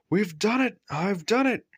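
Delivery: very high, triumphant crow; proudly. A narrator's reading. Gordon boasting at the hilltop, very high and proud. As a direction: boast it at the top of the hill. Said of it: "he said proudly".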